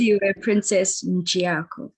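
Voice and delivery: bride says her name carefully; correct name said. Shown as a demonstration. Bride teaching officiant her own name, said carefully. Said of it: "Well, how is".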